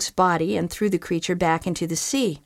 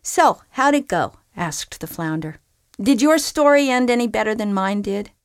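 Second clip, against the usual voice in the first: higher, chatty; friendly flounder; 3 semitones higher, 4 dB louder than usual. Acted. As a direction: ask a friend about her day. Flounder asks groundhog.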